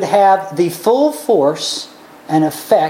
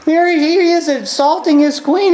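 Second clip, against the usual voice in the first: normal talking voice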